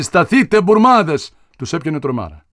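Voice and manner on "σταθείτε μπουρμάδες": high loud war cry at the Turks; battle shout. Retold or imitated. Warrior shouts at the Turks, loud and high. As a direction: roar it at the enemy. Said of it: "να φωνάζει".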